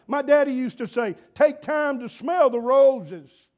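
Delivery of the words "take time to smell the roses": slow, louder, savoring each word; slow emphasis. Shown as a demonstration. Preacher quoting his daddy, slow and emphatic. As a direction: linger on every word.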